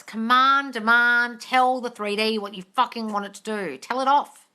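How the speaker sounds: loud, commanding pep talk; emphatic, punchy demand; forceful urging. Real, not acted. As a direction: order them to take charge. Coach urges listeners to demand.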